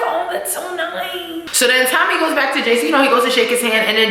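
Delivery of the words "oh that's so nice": laughing gush. Retold or imitated. Gushing at a sweet TV moment.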